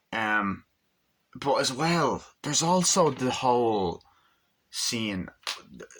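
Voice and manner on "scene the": a single word whispered. Real, not acted. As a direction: drop to a whisper.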